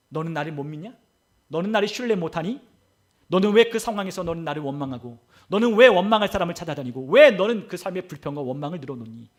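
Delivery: voicing the Lord's reproachful questions; questioning rebuke. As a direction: press each question on the listener as a rebuke. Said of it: "주님께서 우리에게 물으십니다".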